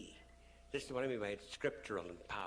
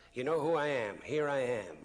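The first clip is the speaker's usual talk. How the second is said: calling out; 4 semitones higher, 9 dB louder than usual. Retold or imitated. C P addressing the union women.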